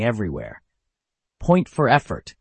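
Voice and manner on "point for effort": loud, high call; hollering. Acted. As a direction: holler it across the stage. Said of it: "Mister Paws hollered".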